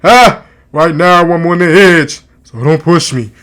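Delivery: loud, exaggerated rapper-style accent; hammed-up mock rapper voice; mimicking a forced accent. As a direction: lay on the forced accent, punching each "Ah". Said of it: "starts talking exactly like that".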